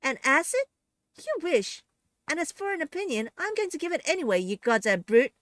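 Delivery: high, loud furious tirade; angry shouting. A narrator's reading. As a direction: tear into the villain. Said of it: "Eliza shouts".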